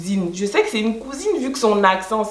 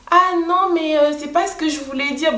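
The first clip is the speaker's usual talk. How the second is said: much higher, flustered excuse; backpedalling agent; 7 semitones higher than usual. Retold or imitated. Quoting the call center agent backtracking, higher pitched and flustered. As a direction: play the agent scrambling to take it back, pitched higher.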